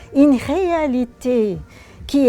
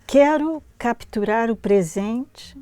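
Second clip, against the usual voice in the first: poem reading; 3 semitones lower than usual. Acted. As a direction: lecture de poème en portugais, voix posée. Reads Portuguese poem aloud.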